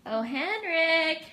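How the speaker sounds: slow sigh. Real, not acted. Waking sleepy teen.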